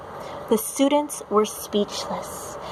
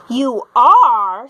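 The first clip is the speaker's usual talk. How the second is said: put-on surprised child; 8 dB louder than usual. A narrator's reading.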